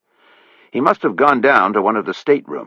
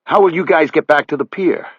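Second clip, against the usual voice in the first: higher, louder desperate Buddy; 9 semitones higher, 4 dB louder than usual. A narrator's reading. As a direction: grasp at anything to stay. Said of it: "a desperate question".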